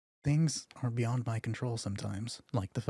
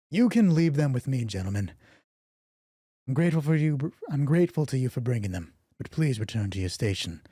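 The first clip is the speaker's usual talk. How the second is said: commanding; 4 semitones higher, 6 dB louder than usual. Acted. Captain dismisses soldiers.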